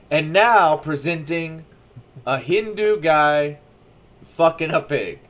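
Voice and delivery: slow, drawn-out announcer read; mock announcer. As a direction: present it like a showman. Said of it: "mock show announcement".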